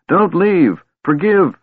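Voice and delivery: high, loud desperate scream; frantic, crazed scream. A narrator's reading. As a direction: scream it after someone leaving. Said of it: "he screamed".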